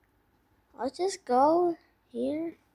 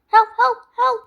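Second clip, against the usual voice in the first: panicked cries for help; 10 semitones higher, 10 dB louder than usual. Real, not acted. Chased by chicken in game.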